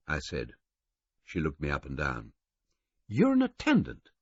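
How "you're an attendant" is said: high female voice, flat and dismissive; flat woman. A narrator's reading. Governess sizing up the attendant, flatly dismissive. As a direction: label him and dismiss him. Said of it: "she said flatly".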